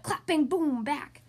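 clap, bang, boom punched loud; booming thunder words. A narrator's reading. Clouds thunder back loudly.

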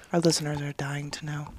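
unvoiced teasing whisper. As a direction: breathe it as a whisper. Whispered tease.

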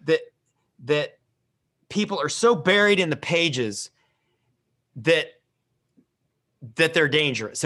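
muffled behind hands; talking into covered face. Real, not acted. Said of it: "I've got my hands over my face right now".

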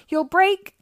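high, loud cry of alarm; gasped warning. A narrator's reading. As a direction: cut in with an urgent warning. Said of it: "Jenny gasped".

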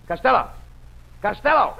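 calling out. Acted. Man calls his partner out of the kitchen. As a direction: call him from the kitchen.

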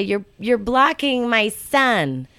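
very slow, lightly haughty whine; a hint of a snooty woman on the beach; snooty sunbather. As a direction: drag it out like a prissy sunbather. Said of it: "What did she say?".

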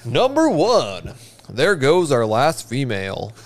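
slow, flat monotone reading. Shown as a demonstration. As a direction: read it with no feeling at all. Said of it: "I'm gonna try to say these in a monotone voice".

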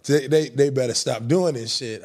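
mildly imitated irritated insistence; retold anger. Teammate getting mad over yelling fans, mildly imitated anger. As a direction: lean on the demand, mock-annoyed. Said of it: "he was getting mad at me".

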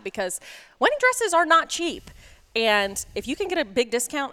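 upbeat sponsor read, pushed hard. Real, not acted. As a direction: sell the sponsor like a radio ad. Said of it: "I feel like I read that really hard".

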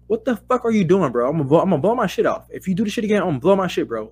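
half-hearted mock tirade at a player; mock coach cussing. Podcast host imitating an angry coach, mock yelling. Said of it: "Exactly how I would be".

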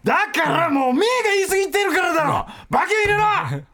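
outraged yell, laughing; exasperated yell. Real, not acted. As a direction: shout in mock fury. Exasperated at teasing.

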